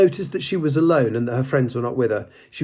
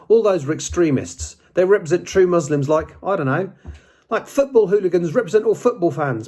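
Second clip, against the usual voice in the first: piping up; 7 semitones higher than usual. A narrator's reading. English girl defending Muslims, higher piping voice. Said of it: "piped up an English girl".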